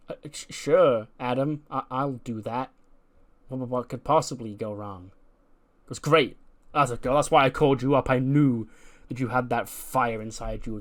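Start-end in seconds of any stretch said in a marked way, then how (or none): 0.1-5.1 stammered, uneasy retold yes; hesitant agreement. Ren agrees to find Candice for Adam, hesitant. Reluctantly accepts a risky job. 6.0-10.8 louder, eager retold pep talk; enthusiastic praise. Adam praises Ren for taking the job, enthusiastic. Boss cheers her on after acceptance.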